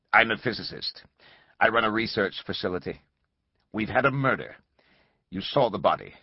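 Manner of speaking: stiff, even caller voice; rigid mechanical voice. Acted. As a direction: read it cold, like a machine. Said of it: "The voice was rigid, mechanical".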